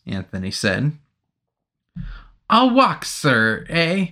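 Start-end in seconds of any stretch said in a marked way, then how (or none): 2.5-4.1 higher, pleading nervous soldier; imploring. Acted. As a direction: beg to be taken home. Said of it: "he implored".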